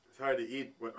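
talking through hiccups; words broken by hiccups. Real, not acted. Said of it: "Oh, hiccups".

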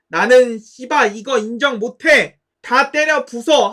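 loud defiant shout; furious yell. Retold or imitated. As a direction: shout your refusal, smash it all. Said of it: "하면서 결혼식 깽판 치고".

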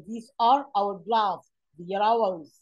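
slow, deliberate example sentences; slow model reading. Shown as a demonstration. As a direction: read the example out slowly. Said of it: "Here is".

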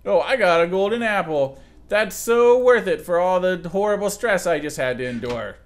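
a dry, sarcastic cheer over the reward. Acted. Mocking the dungeon's golden apple reward, dry sarcasm. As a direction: pretend to be thrilled, lightly. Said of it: "I'm being sarcastic".

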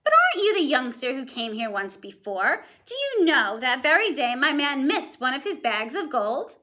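a lightly voiced suspicious giantess; ogre's wife voice. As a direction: question him like a wary big woman. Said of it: "I hope you heard the dialogue when my voice changed".

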